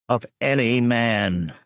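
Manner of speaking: slow, with a heavy stress on "man". A narrator's reading. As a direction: lean hard on "man" to hint at something else. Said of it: "peculiar emphasis to the last word".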